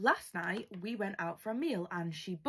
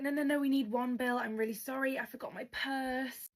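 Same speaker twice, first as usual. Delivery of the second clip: higher-pitched mock panic; Amy; 4 semitones higher than usual. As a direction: imitate a flustered, pleading sister-in-law. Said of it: "Amy starts panicking".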